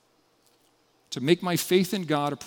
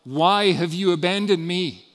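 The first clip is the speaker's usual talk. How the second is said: louder anguished cry to God; 3 semitones higher, 5 dB louder, slower than usual. Retold or imitated. Jesus crying out to God from the cross, anguished. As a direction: call out in anguish, held back from a full scream. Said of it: "cried out in a loud voice".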